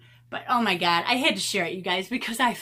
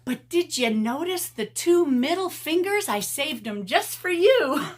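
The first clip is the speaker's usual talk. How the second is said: sassy comeback; 8 semitones higher, 5 dB louder than usual. Retold or imitated. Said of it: "And I said".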